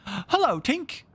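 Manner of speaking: high, rising friendly call; boys calling. Acted. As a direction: call up to the fairy. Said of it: "cried the wondering boys".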